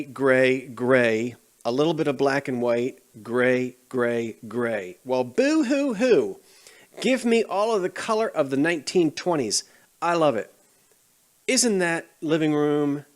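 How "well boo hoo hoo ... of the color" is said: mock crying. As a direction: fake sobbing over gray. Mocking the gray decor trend.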